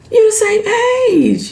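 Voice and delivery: high, slow, disbelieving, you stressed; drawn-out exasperated protest. Real, not acted. Repeats, exasperated.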